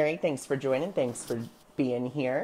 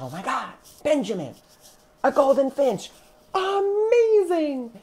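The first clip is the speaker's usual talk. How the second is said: rising to a much higher, louder, near-crying squeal; overjoyed squeal; 12 semitones higher, 6 dB louder than usual. Retold or imitated. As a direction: climb into a teary squeal of joy. Overjoyed after meeting her guardian angel.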